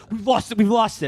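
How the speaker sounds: lightly voiced operators reporting a lost signal; call monitors losing track. Eavesdroppers on a monitored conference call, mildly mock alarm. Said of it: "they're like".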